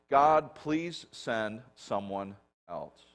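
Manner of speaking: slow, deliberate quoted plea; measured plea. Retold or imitated. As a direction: draw the plea out word by word. Moses' plea quoted slowly.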